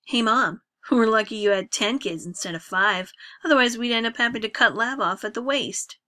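loud bitter toast. Acted. Drunk son's bitter public toast.

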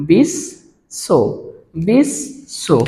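বিশ শো in separated halves, pause between; doubled শ pronunciation. Shown as a demonstration. Teacher showing the sound comes twice, doubled শ pronunciation. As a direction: split বিশ শো as bish, sho, sounding শ twice. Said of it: "এই কারণে তালব্য স এর উচ্চারণটা".

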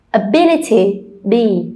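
"Ability" with BI stressed, then "be" alone; a-BI-lity, then echo "be" by itself; stress on second syllable. Shown as a demonstration. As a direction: model "Ability", isolating stressed "be". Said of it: "see where's the stretch".

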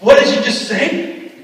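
sudden high, indignant what; shocked disbelief. Retold or imitated. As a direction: react in angry disbelief. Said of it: "I'm like".

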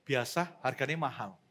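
low, underwhelmed mutter of a full eater; unimpressed diner. Acted. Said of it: "Anda juga bilang gini". (gumaman rendah orang kenyang yang tidak terkesan)

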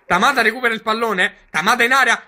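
building to a shouted goal call; rising excitement, yelling the goal; breathless Italian goal commentary. Pretend. Mock commentary, goal scored.

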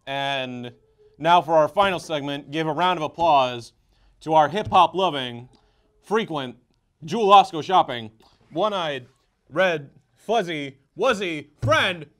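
announcer. Acted. Introducing the next guest.

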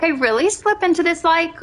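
put-on valley girl accent with vocal fry; American valley girl. Shown as a demonstration. Streamer showing off American to co-player, valley girl accent. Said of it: "American is really easy for me".

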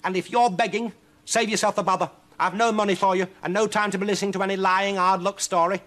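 high, loud, scornful tirade; snarling. Acted. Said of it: "snarled the witch".

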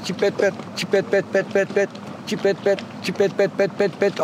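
softly chirped goldfinch phrase; a breeder mimics how the bird sings; bird song imitation. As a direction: rattle the notes off like the bird. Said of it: "Şimdi böyle yapıyor kuş".

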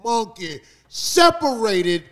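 usual speaking voice

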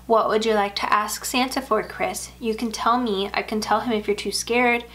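soothing. Acted. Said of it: "uses her adult soothing voice".

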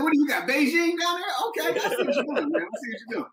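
high, laughing mock shock; laughing disbelief. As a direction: crack up while teasing. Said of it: "I was like".

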